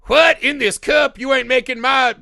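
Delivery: high, loud indignant yelp; mock outrage. Fighters offered sample cups, high mock outrage. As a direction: act scandalized by the cup. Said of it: "And they're like".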